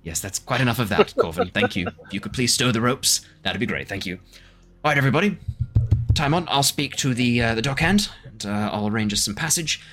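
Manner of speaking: ship captain's voice. Acted. Captain telling the crew they are docking, brisk and commanding.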